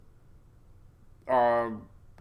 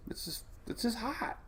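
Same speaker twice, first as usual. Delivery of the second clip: hushed, higher whisper; 10 semitones higher, 9 dB quieter than usual. Real, not acted. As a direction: whisper it like a secret. Awed about hot ocean water.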